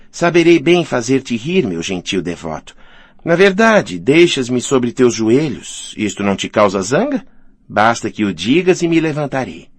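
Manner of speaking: lightly tease, with lifted openings; lightly voiced coquette. Woman on Alyosha's knees offering cheer, lightly coquettish.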